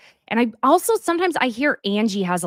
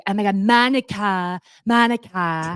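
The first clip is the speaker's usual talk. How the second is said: Lisa Barlow voice. Shown as a demonstration. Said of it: "go deep and draw out your A's".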